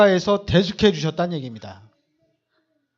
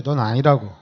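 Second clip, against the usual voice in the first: gentle reassurance; 6 semitones lower than usual. Shown as a demonstration. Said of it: "그럼 얘기하세요".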